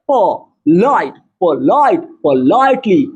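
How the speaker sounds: पोलाइट and पोलाइटली pulled apart very slowly, low; slow, low sounding-out of each syllable in पोलाइटली; syllable-by-syllable demo. Shown as a demonstration. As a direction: stretch out पोलाइट as puh-LAIT, then पोलाइटली as puh-LAIT-lee. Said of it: "पता लगाने का प्रयास करेंगे".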